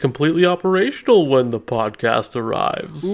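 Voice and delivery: a hint of the sinister Emperor; lightly voiced Emperor line. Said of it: "good Emperor line".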